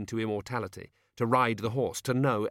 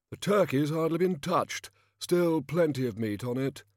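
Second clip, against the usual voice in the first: higher-pitched kingly bluster; jovial overbearing king; 7 semitones higher, 3 dB louder than usual. A narrator's reading. King warning old man about beans, heartily overbearing. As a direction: play a hearty, patronising monarch.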